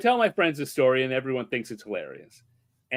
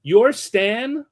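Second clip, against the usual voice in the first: puzzled; 8 semitones higher, 4 dB louder than usual. Retold or imitated. Girlfriend confused.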